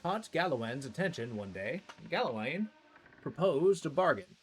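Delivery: storyteller reading item lore. Acted. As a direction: read it like a legend. Reads item lore aloud.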